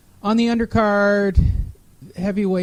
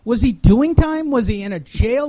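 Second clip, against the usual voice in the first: incredulous; 4 semitones higher than usual. Real, not acted. Mocking the typo.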